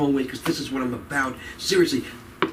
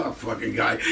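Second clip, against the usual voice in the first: imitated jealous comic; 8 semitones lower, 5 dB quieter than usual. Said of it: "and go".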